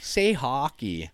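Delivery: a hint of a pestering tourist; requesting visitor. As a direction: ask eagerly for the word. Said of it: "I have that all the time".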